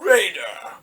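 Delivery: very slow, drawn-out proclamation; solemn Palpatine. Retold or imitated. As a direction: pronounce it like a dark ceremony. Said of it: "he's just like".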